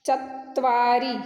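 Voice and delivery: चत्वारी drawn out slowly, t and v joined; slow pronunciation demo. Shown as a demonstration. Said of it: "Sanskrit में उसको बोलते हैं". (चत्वारी धीरे धीरे उच्चारण)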